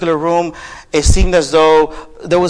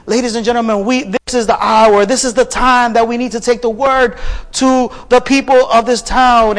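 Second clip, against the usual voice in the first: raised-pitch imitation of a street preacher; young woman preaching; 6 semitones higher than usual. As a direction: proclaim it like a preacher addressing a crowd. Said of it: "she starts to preach the word".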